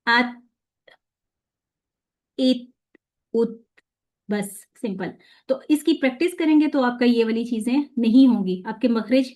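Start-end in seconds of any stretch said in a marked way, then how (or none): 0.1-3.6 each syllable said apart, slowly, with a pause between; slow syllable demo. Shown as a demonstration. Teacher sounding out syllables for students. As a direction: spell out आत, इत and उत one by one. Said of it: "उस तरह पढ़ूंगी".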